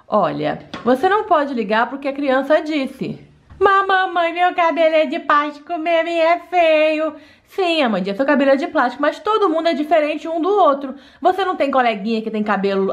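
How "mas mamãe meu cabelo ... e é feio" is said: put-on a higher, childlike doll voice; sulky little girl insisting. Daughter insisting to mom her hair is ugly, childlike voice.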